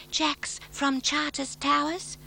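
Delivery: dreamy murmur. Acted. Consuelo telling Matt about Jack, a slow dreamy murmur. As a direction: linger on it as if lovestruck. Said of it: "She murmured".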